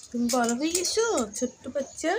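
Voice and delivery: high cooing pet talk. Real, not acted. Cooing to the cat. (বিড়ালকে আদুরে গলায় বলা)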